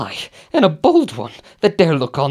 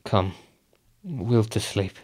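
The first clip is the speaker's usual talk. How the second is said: 1 weary murmur; 3 semitones lower, 6 dB quieter than usual. Acted. Weary Macbeth after the banquet.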